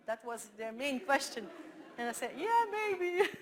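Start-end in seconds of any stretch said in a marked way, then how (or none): 2.4-3.3 loud, high, laughing; laughing answer. Real, not acted. Answering the ladies' sex question, laughing. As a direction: laugh it out, cheeky.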